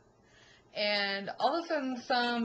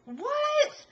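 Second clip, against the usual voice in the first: loud, much higher startled what; shocked what; 5 dB louder than usual. Retold or imitated. Reacting in disbelief to the old man's warning, loud and high. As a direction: blurt it out in disbelief. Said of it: "And I was like".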